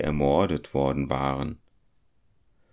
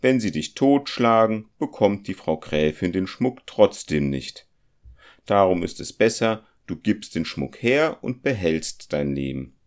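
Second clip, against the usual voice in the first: louder, brushing off his friend's fears; a confident companion waving worries away, louder; scoffing compass-smith; 3 semitones higher, 4 dB louder than usual. Acted. The compass-smith voiced in the story. (spöttisch beruhigender Zirkelschmied, lauter)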